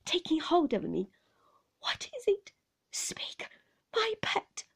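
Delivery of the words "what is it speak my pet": high, concerned coaxing; anxious nurse. A narrator's reading. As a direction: urge the child gently but anxiously. Nurse anxiously coaxes tearful child.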